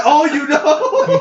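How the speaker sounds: high, drawn-out "oh" through laughter; mock surprise. Friend retelling his reaction to the dad's joke, mock surprise. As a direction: stretch it out high while laughing.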